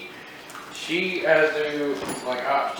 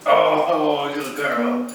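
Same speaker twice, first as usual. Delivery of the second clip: excited praise; 4 semitones higher, 5 dB louder, much slower than usual. Real, not acted. Praising the dog's trick.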